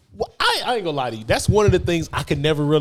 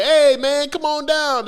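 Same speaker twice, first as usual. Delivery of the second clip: put-on staff coaxing kid down; 8 semitones higher, 6 dB louder, much slower than usual. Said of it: "People over there like".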